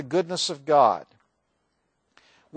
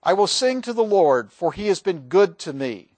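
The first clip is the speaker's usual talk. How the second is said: scripture reading; 4 dB louder than usual. Acted. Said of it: "I'm just gonna quote some from the Psalms".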